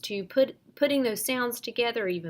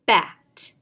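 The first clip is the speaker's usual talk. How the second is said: loud answer Bat; proud pupil reply; student answer; 2 semitones lower, 8 dB louder than usual. Shown as a demonstration. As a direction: call the blended word out. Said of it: "Student responds".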